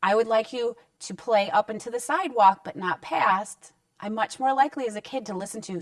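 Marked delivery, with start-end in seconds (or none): 0.0-3.7 frame it as a gentle do; positive request. Shown as a demonstration. Parenting coach showing the positive way to tell a child, calm request. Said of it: "notice I'm doing it this way".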